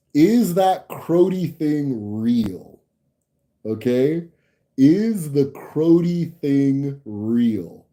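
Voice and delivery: slow, drawn-out mock plea; playful pleading. Real, not acted. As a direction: beg the viewers slowly, half-joking. Pleading with Toronto viewers.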